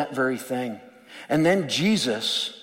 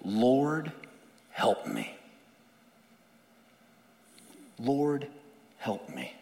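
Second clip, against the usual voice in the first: pleading; slower than usual. Acted. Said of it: "she says".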